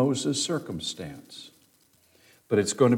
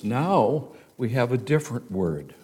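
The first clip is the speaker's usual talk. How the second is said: ordinary talk, nothing marked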